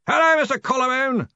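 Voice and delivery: high, hearty yelled greeting; yelling. A narrator's reading. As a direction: holler to someone far away. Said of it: "yelled Ridcully".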